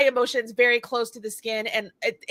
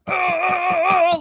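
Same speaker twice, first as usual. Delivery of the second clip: forceful grunt; 6 semitones higher, 3 dB louder than usual. Retold or imitated. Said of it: "like, forceful with everything".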